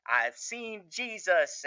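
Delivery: lightly voiced preacher, drawn out; Boyd. Criminal preaching about Jesus to inmates, lightly mocked preacher voice. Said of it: "Boyd, in his Boyd fashion".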